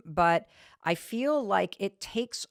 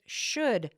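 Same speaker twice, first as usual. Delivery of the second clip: "should" drawn out and set apart; slow, deliberate weight on "should"; stress on SHOULD; 2 semitones higher than usual. Real, not acted. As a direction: lean on "should" with a falling tone. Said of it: "I'm emphasizing the word should".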